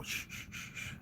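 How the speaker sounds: whispered shushing from the grown-ups; hushing kids. Retold or imitated. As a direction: hush the children in a breathy whisper. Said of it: "notice me and my brother and go".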